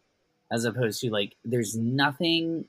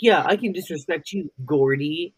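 mock cocky taunt; 4 semitones higher, 5 dB louder than usual. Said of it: "He's like".

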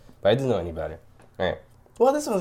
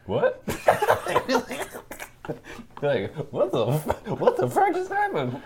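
shocked class; much slower than usual. Retold or imitated. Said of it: "The entire class was like".

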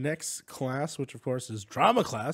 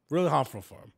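Venom echo. Acted.

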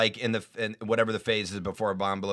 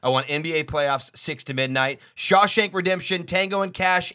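program director voice; 4 semitones higher than usual. Retold or imitated. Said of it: "He's like".

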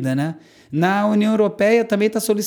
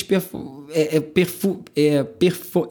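choking mid-sentence; words catching in a choked throat; slower than usual. Real, not acted. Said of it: "engasguei brabo".

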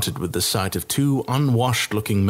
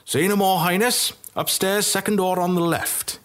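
a hushed, knowing innkeeper voice pitched higher; conspiratorial; 10 semitones higher than usual. Acted. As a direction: let him in on a secret. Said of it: "he said conspiratorially".

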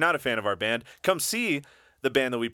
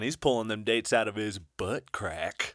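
shock jock radio host; 2 semitones lower, 3 dB quieter than usual. Acted. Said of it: "I kinda sounded like a shock jock".

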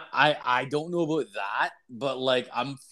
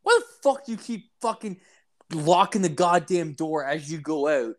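high, fast mock rant at a roommate; mock exasperated; 4 semitones higher than usual. Narrator retelling scolding his roommate, mock exasperated. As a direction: retell the complaint with a mock angry edge. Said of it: "I used to always say to him".

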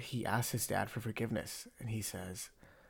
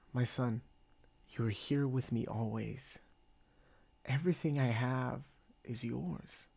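measured Bible reading, pausing between phrases; scripture reading. Acted. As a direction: read the father's reply from scripture, unhurried. Reads scripture aloud.

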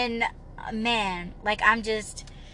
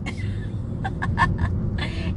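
laughing it off; 6 semitones higher than usual. Real, not acted. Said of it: "I'm just laughing this shit off".

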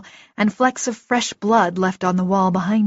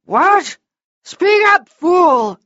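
much higher, loud irritated shout; furious shout; 9 semitones higher, 6 dB louder, much slower than usual. Acted. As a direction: yell at the deafened servant. Half-deaf lord shouting at servant.

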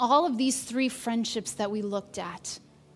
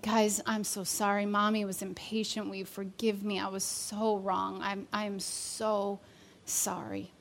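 put-on hushed and choked up, saying sorry to the kids; tearful apology; 2 semitones lower, 6 dB quieter than usual.

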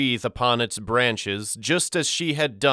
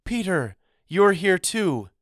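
cried out; 8 semitones higher than usual. A narrator's reading. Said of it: "she cried".

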